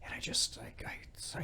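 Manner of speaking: near-whispered, faltering confession; Barry. Retold or imitated. Barry about to admit he cries, whispered and faltering. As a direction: imitate words failing before tears. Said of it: "I just start crying".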